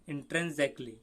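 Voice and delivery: "intrinsically" said as "in-tren-ZEK-lee"; teacher's demo of "intrinsically" as in-tren-zek-lee; demonstrated pronunciation. Shown as a demonstration. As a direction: model "intrinsically" with an ending like "exactly". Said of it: "इस तरह बोलना है".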